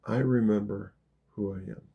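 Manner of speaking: gentle affirmation, sinking low at the end; loving. Shown as a demonstration. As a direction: say it lovingly, settling down softly on the last words. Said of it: "say it with love".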